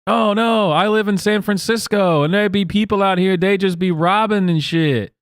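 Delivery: lightly voiced mock of a scared San Franciscan; mocking the shocked woman. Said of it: "You are the only person who is shocked".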